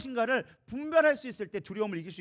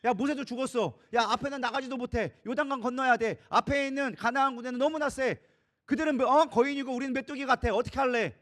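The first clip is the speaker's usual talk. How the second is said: agitated protest, a bit raised; resentful complaining; 4 semitones higher, 4 dB louder than usual. Acted. Israelites complaining to their new leader Joshua, resentful protest. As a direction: pile up grievances at the leader. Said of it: "이스라엘 백성들은 원망합니다".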